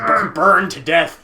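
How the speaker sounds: mock doomed boy. Player parrots the boy's dire line, mock-dramatic. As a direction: drag out the dire words in mockery.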